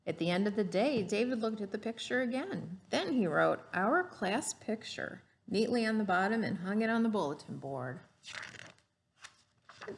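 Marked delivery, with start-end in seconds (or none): 0.0-8.0 lively storybook read-aloud; gentle classroom story voice; reading to children. Acted. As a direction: read it like a picture book to a class. Teacher reads picture book aloud.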